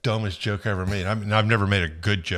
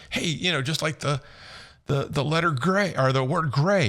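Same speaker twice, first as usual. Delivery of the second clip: imitating the British guy; 4 semitones higher than usual. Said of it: "he goes".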